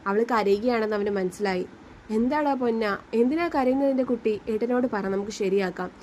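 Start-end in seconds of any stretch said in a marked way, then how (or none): 2.1-5.9 calm comforting. Acted. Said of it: "അവൻ ശാന്തമായി ചോദിച്ചു".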